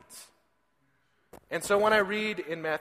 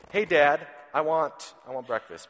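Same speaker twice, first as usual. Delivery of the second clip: put-on toddler asking; 4 dB louder than usual. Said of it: "the first thing that I hear".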